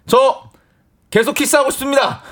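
high, loud formal declaration; mock-earnest shouted confession; brazen boyfriend. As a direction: proclaim it boldly to her father. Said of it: "당돌하게".

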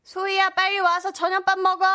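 high sing-song call across the playground; calling kids to dinner. Acted. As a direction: sing out for the kid to come eat. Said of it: "한디가 소리를 쳐드렸어요".

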